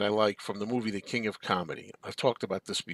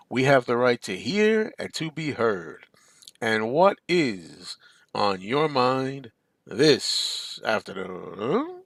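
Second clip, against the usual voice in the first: slow, formal talk-show opener; a slow, grand call-in show greeting; show host intro. Acted. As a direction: announce it like an old radio host.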